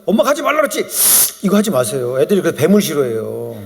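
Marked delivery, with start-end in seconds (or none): 0.1-0.8 lightly voiced scolding mom, pitched up; higher-pitched mock maternal scolding; scolding mother. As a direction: imitate a mother telling off her child. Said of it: "엄마가 자꾸".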